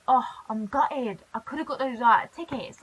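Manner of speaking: mild mock disappointment. Shown as a demonstration. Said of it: "or I go".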